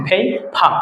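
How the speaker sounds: ফেইফা with a puff on both consonants; aspirated p sound. Shown as a demonstration. Teacher repeating the example for learners, ফেইফা with aspirated "ph" twice. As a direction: say ফেইফা as "phei-pha". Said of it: "এটাও ফ হবে".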